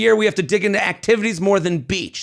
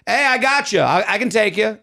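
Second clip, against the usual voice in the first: imitated Queens driver; Queens accent. Driver offering a ride in China, in a Queens accent. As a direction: offer help in a New York street accent. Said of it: "Queens accent".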